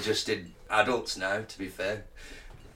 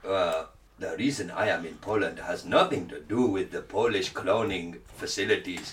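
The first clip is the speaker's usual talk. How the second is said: put-on generic African accent; 6 semitones lower, 5 dB quieter than usual. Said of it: "This is my generic African accent".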